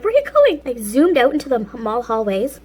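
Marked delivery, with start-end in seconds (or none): 0.0-0.6 put-on high, loud startled call after a runaway kid; mock-alarmed mom shouting after her. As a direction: call out in shock as she bolts. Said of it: "the girl and my mom were like".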